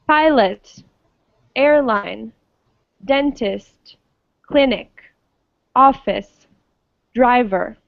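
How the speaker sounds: a word list, "Pilot" to "Driver", each front-stressed and set apart by pauses; first-syllable stress. Shown as a demonstration. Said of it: "have their stress at the beginning".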